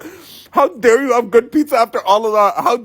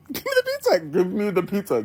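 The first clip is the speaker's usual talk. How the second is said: mock whine; 2 semitones lower, 6 dB quieter than usual. Repeated demand, mock whine.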